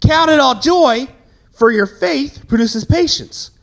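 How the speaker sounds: slow, booming sermon voice in mock; preachy pastor. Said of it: "he's always like".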